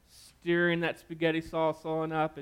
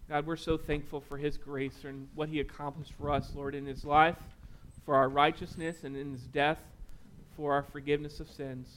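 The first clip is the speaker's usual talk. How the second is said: closing prayer; 3 dB quieter than usual. Acted. Pastor prays over the congregation, hushed and earnest. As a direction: pray quietly and sincerely.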